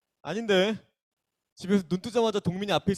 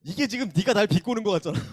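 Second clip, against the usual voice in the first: laughing through the words; amused protest, laughing as you talk; 5 semitones higher, 3 dB louder than usual. Real, not acted. Teacher laughs at student's jab.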